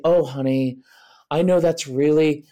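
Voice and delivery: gently sympathetic, everyday volume; a lightly demonstrated soothing parent voice; soft tone. Shown as a demonstration. Parent soothing an upset strong-willed child, soft tone. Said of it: "a really soft tone".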